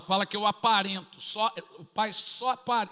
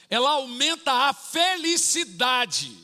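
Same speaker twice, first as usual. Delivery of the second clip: slow emphatic; 6 semitones higher, 6 dB louder, slower than usual. Real, not acted. Preacher stresses point slowly.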